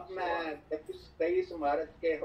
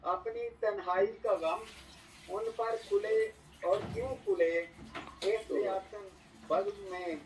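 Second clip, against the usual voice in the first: stately nazm recitation. Acted. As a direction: recite each line with weight and pauses. Poet reciting verses at mushaira.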